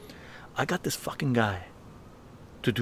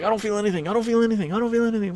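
raised, high voice repeating he feels nothing; high-pitched insistence; 10 semitones higher, much faster than usual. Retold or imitated. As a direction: squeak it out, stubborn and high.

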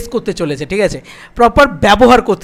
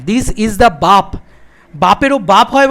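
slow emphatic declaration; 3 dB louder, slower than usual. Real, not acted. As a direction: drag out each word, very slow. Hyping the film as the best.

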